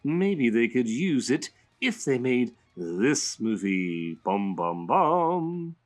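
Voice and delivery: a hint of a playful villain reading a letter; Joker voice. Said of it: "I'm gonna say it in Joker's voice".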